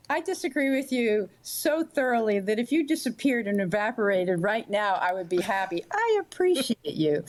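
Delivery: polite backstab. Acted. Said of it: "backstab or "I truly appreciate you".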